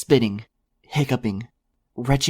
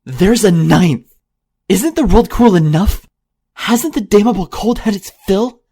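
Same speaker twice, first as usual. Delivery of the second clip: much louder, higher, desperate yelling; ruthless yell; 9 semitones higher, 11 dB louder than usual. A narrator's reading. Unicorn yells in the mare's face, ruthless high shout. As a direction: scream it into her face. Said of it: "I ruthlessly yelled at her".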